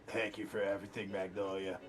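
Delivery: warm. Real, not acted. Player gently comforts the NPC.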